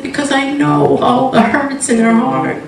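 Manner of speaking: God gently explaining the woman's hurt; God's tender voice. Retold or imitated. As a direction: speak as a compassionate God. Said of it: "He said".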